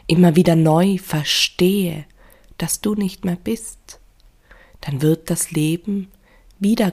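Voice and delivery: measured grief poem reading with pauses between phrases; poem recitation. Acted. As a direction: recite a mourning poem, weighting each line and rhyme. Reads own grief poem aloud.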